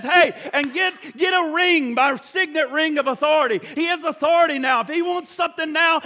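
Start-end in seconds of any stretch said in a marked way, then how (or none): 0.0-3.6 high, loud eager orders; father calling out. Acted. Father tells servants to fetch the ring, loud eager call.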